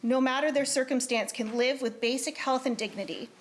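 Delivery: measured, formal reading of a committee report. Acted. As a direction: read it out to the legislature with formal care. Reads committee report in legislature.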